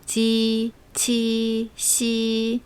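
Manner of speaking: 지 치 시 said relaxed and easy; just say them loosely; easy 이 syllables. Shown as a demonstration. Teacher modeling relaxed 지 치 시, easy. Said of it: "편하게 발음하면 돼요".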